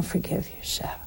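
hushed whisper; whispered reproach. Real, not acted. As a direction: drop to a confiding whisper. Sermon on forgiveness.

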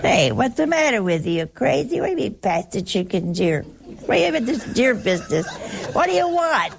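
gruff teasing retort, rising toward a laugh; gruff family quarrel retort; mock rough family quarrel. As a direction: bark back at the polite diner, half laughing. Acted Italian family quarrel.

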